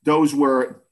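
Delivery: lightly voiced Boston-accented mom, correcting. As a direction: put someone straight in a mild Boston accent. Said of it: "in a Boston accent".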